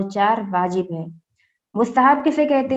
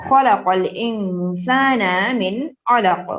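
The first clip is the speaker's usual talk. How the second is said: slow, measured tilawat; Quran recitation; much slower than usual. Acted. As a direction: recite each word slowly and evenly. Recites verse slowly. (آہستہ تلاوت)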